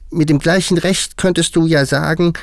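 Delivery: very high, loud hare voice; high-pitched animal voice; interjecting March Hare. A narrator's reading. March Hare's figure chimes in.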